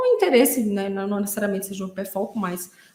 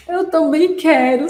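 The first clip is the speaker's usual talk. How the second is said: heartfelt agreement, loud and drawn out; emphatic "me too", without any crying; super sincere; 5 semitones higher, 7 dB louder, slower than usual. Retold or imitated. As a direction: reenact wholehearted fellow feeling. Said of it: "super sincero".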